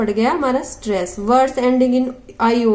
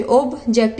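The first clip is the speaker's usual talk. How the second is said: "ऑब्जेक्ट" split into ऑब and जेक्ट; syllable break shown. Shown as a demonstration. Teacher shows where the verb's mark goes, "ऑब्जेक्ट" split in two. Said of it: "यहाँ पे syllable लगाएंगे".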